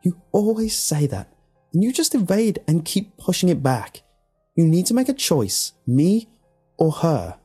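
high, loud, heated accusation; snapping. A narrator's reading. Alex confronting Tom over his choice, snapping. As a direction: snap at him, pitched well up. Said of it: "she snapped".

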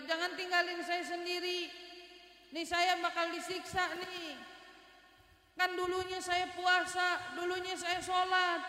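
high, drawn-out plea of the dead; crying out from the grave. Retold or imitated. Dead man begs the brother at the graveside, drawn-out pleading cry. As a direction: imitate a tormented man begging, slowly. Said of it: "ada teriakan suara kayak gitu".

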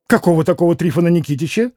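fast, baffled, blurted question; дурацкое удивление; dumb surprise. Acted. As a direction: rattle it out in stupid astonishment. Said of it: "С дурацким удивлением".

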